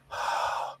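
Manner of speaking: long, soft exhale; breath released after a long burden; relieved sigh. Acted. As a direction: let out a slow sigh of relief. Character sighs as curse lifts.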